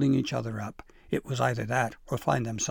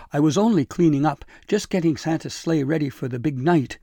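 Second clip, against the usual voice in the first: higher, louder pleading excuse; 4 semitones higher, 8 dB louder than usual. A narrator's reading. Elf caught in the sleigh excuses himself, pleading. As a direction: plead your innocence urgently. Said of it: "he pleaded".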